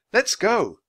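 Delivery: put-on high, loud girlish call; rally them in a high voice; eager urging. A narrator's reading. Annie urges Jack onward.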